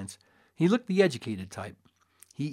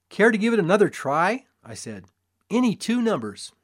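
showman; 6 semitones higher, 5 dB louder than usual. A narrator's reading. Showman invites another try.

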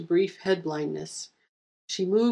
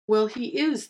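high squeaky hare protest; indignant little squeak; 5 semitones higher than usual. Acted. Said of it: "the hare squeaked".

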